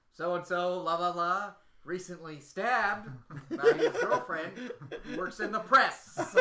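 slow mock commentator call; bad acting. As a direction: ham up a wrestling announcer. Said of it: "did Mark deliver it like".

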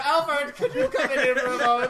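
calling for butler. Acted. Host playfully summons Alfred into the room, calling out. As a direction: call out to the butler, half laughing.

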